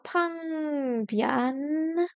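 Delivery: drawn-out "pang bian", dipping then rising; second then first tone. Shown as a demonstration. Learner sounding out a new Chinese word, stretched tones on "pang bian". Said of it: "deuxième ton, plus bian, premier ton".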